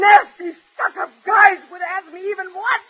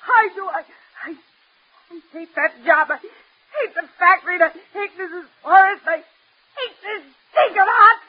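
tearful, halting tirade of hate; crying outburst. Acted. Daughter hating job and home, crying outburst. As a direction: choke it out in bursts, building in force. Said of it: "you make your face all red if you cry".

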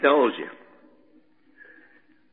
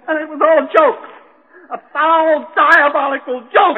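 high, slowing bitter rage; bitter raving; 8 semitones higher than usual. Acted. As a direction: spit out the injustice. Madman raving about his failure.

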